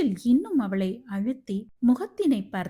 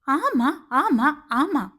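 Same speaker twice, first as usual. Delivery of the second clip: slow, louder shouted yes; shouting; 5 semitones higher, 5 dB louder, much slower than usual. A narrator's reading. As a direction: fling each word at him. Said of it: "என கத்தியவளின்".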